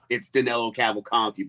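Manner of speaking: Danilo Cavalcante in a Philly accent; Philly accent with a flat short a and dropped r. Shown as a demonstration. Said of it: "in a Philly accent".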